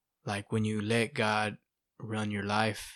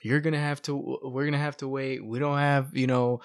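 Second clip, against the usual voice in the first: wife flipping out; 3 semitones higher, 4 dB louder than usual. Retold or imitated. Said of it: "So she was flipping out".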